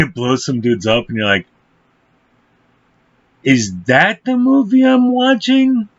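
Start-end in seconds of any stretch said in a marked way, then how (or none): 3.4-5.9 high, slow incredulous squeal; hammed-up astonished viewer; mock disbelief. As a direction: stretch it out, baffled and way up in pitch. Mock viewer reaction to film.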